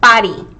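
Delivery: 파리 said like French Paris; French-style 파리. Shown as a demonstration. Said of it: "like how it's pronounced in French".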